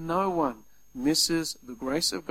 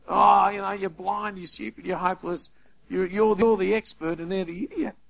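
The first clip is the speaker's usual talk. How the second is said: mock yelling fan; 3 semitones higher, 5 dB louder than usual. Preacher imitating a footy fan abusing the umpire, louder jeering. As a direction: heckle like a fan in the stands. Armchair footy critic ranting.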